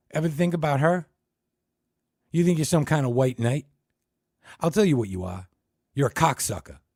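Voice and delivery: loud high tirade; furious attack. Acted. Dick Keene tearing into Ted, loud and high. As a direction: tear into him.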